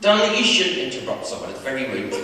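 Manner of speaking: stern teacher. Acted. Teacher scolding the boy.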